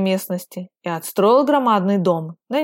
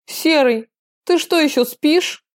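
higher, cheerful teasing call; 7 semitones higher than usual. A narrator's reading. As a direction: tease him cheerfully, pitch up. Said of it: "Весело проговорил".

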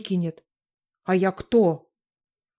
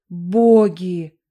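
loud call; 3 semitones lower, 6 dB louder than usual. Acted. Villain calls on the gods.

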